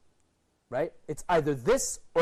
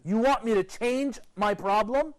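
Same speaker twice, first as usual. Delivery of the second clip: insolent son; 4 semitones higher, 4 dB louder than usual. Acted. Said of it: "He's insulting his parents".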